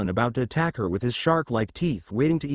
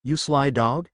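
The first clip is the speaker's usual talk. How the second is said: teasing; 2 semitones higher than usual. Acted. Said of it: "with a teasing grin".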